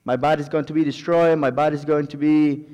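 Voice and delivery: preacher voicing Jesus' promise on the cross; voicing Jesus. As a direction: speak as Jesus, lightly acted, tender. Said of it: "He said".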